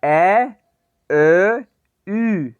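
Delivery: ए ए यू as ä ö ü, called clearly; umlaut review. Shown as a demonstration. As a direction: run through the three umlauts. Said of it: "मेरे साथ साथ इसको pronounce करना".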